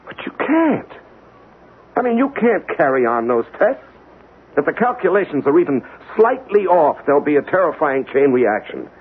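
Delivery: high, agitated pleading about coming disaster; frantic scientist begging the colonel to stop the tests; urgent warning. Acted. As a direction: plead with rising panic, voice pitched high.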